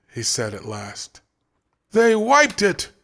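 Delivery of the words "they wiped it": loud, slow, high frustrated yell. A narrator's reading. Brent yelling at the wall in frustration. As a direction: shout it at the wall. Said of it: "Brent yelled".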